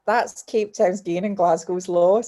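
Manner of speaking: slow, deliberate repeat of the motto. Retold or imitated. Guest telling the host the line she lives by, slow and firm. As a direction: say it slowly, like a personal mantra. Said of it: "you just think".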